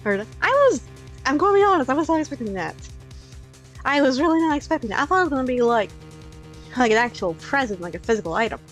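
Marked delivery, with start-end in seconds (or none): 0.0-6.9 stunned excitement. Real, not acted. Reacting to shock.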